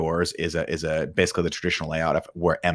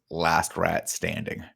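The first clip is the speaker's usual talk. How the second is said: slow, soft deadpan kill line; understated Bond one-liner; cool one-liner; 5 dB quieter, much slower than usual. Retold or imitated. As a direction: deliver it slow and quiet like a cool hero. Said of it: "looks down, and says".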